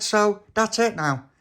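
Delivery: high, loud, drawn-out complaint; offended huff. Acted. Tony to Little Pappy about his head, offended huff. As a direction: stretch it out indignantly.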